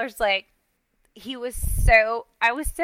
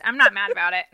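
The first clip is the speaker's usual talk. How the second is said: mock denial; 2 semitones lower, faster than usual. Real, not acted. Mock denial, first take at full voice.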